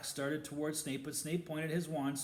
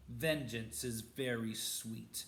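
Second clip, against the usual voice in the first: breathy gloating; slower than usual. Acted. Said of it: "Snape breathed at Black".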